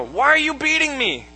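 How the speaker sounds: high, indignant donkey complaint; talking donkey. Acted. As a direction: whine the question as a wronged donkey. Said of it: "and the donkey says".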